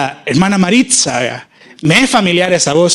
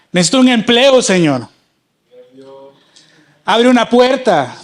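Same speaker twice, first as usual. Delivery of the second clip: pleading prayer. Acted. Preacher voices a desperate prayer.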